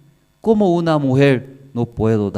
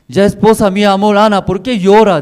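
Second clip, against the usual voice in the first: higher, louder coaxing husband's voice; husband Elcana pleads with crying Ana, high and loud; pleading husband; 8 semitones higher, 7 dB louder than usual. Acted. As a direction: beg her gently but urgently like a worried loving husband.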